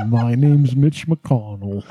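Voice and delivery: slow it right down like a turtle. Acted. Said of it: "can you do turtle voice again?".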